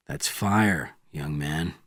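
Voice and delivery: low, soft and steady. Acted. Bourne answering the young Soviet, softly. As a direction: say it quietly to the young man. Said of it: "answered Bourne softly".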